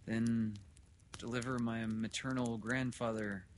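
a hint of a miserable father, fading at the end; wretched father. Father explaining his grim choice to doctor, understated misery. Welling, a figure in the story.

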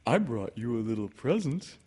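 eager little character voice; storybook bear, pleased and eager; excited. A narrator's reading. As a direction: offer it with mild excitement. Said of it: "said Pooh excitedly".

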